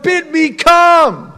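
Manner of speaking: high, loud, drawn-out call; bold in faith. Retold or imitated. Peter asking the Lord to bid him come, bold. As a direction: call it out slowly with full confidence. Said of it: "He's the one in faith that says to the Lord".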